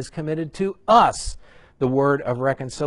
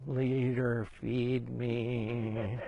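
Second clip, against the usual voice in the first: needy group member; 9 dB quieter, much slower than usual. Retold or imitated. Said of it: "everybody's just like".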